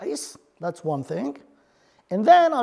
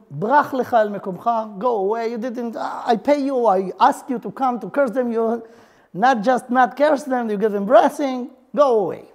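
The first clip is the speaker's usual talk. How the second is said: louder, exasperated dismissal; frustrated scolding; 4 dB louder than usual. Retold or imitated. Frustrated king Balak scolding the prophet he hired, louder and exasperated. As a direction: shoo him off like a fed-up paymaster. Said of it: "Balak was very frustrated".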